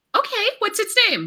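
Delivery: high, puzzled voice.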